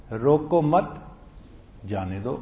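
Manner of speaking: روکو مت together, rising, a break, then جانے دو; روکو مت as one unit, then جانے دو apart; pause after مت. Shown as a demonstration. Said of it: "بالکل ہی الٹ مفہوم ہو گیا".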